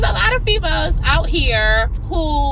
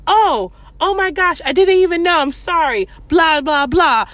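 mock flustered father; 5 semitones higher, 4 dB louder than usual. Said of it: "he was like".

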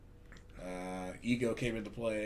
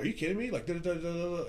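mocking the customer; 5 semitones higher, faster than usual. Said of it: "he's like".

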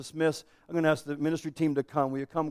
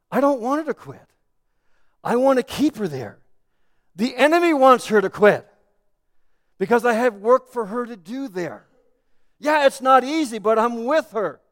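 firm divine correction; 5 semitones higher, 6 dB louder than usual. Retold or imitated. Voices the Lord correcting the husband.

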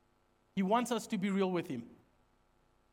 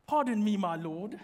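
distinguished gentleman. Acted. Preacher replaying Gideon's reply to the angel, distinguished gentleman. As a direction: lightly mimic a courteous gentleman. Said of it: "Such a distinguished gentleman".

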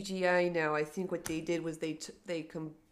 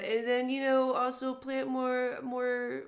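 Chicago reporter voice; 5 semitones higher than usual. Acted. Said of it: "I liked your Chicago Reporter voice there".

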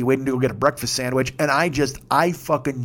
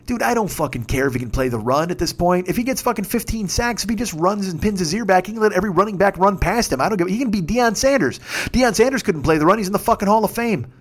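higher-pitched exasperated rant; heated retort; 4 semitones higher than usual. Retold or imitated. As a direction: argue back hotly in a higher voice.

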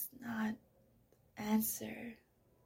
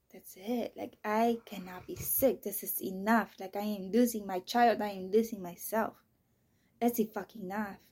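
fed up; 7 dB louder than usual. Retold or imitated. Retold breaking point that night.

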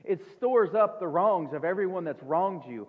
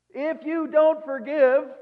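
emphatic warning; 8 semitones higher, 8 dB louder, slower than usual. Real, not acted. Sermon climax warning.

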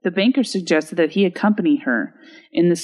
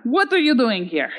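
put-on higher-pitched, abrupt Russian accent; practiced Russian-accent catchphrase, pitched up; 5 semitones higher than usual. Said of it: "do your best Russian ac".

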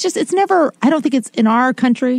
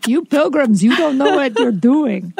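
mock Italian or French accent; 3 semitones higher, slower than usual. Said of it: "speaking like I have an Italian or French accent".

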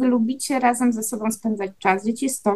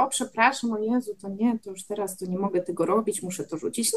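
lower, quieter voice tailing away; mock flustered apology; 4 semitones lower, 6 dB quieter than usual. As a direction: drop the volume steadily through the apology. Voices an apology not actually made. (przepraszający ton, coraz ciszej)

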